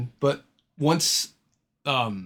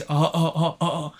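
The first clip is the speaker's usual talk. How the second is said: mock laugh; 4 semitones higher than usual. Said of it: "with Doug's laugh".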